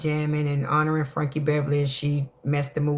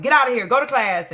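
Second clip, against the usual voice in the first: playful motherly order; 7 semitones higher, 5 dB louder, faster than usual. Retold or imitated. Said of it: "I'm like".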